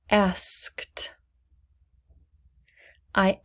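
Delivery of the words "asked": a whispered model word. Shown as a demonstration. Teacher whispering a word for students. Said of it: "please repeat after me".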